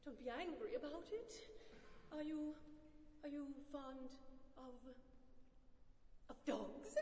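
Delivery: soft, hesitant coaxing; tentative, placating murmur; soothing. A narrator's reading. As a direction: tread gently, pausing before the risky word. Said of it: "in a soothing tone".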